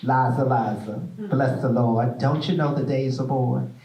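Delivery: mother's wake-up poem in a light Southern dialect; Southern dialect recital. Retold or imitated. Mother waking her sons, lightly voiced Southern dialect poem. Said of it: "it spoke, like, in dialect, of a very Southern dialect".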